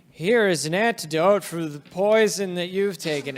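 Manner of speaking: loud in-character proclamation; proclaiming knight. Acted. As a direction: declare it like an official at full voice. GM voices knight offering antidote.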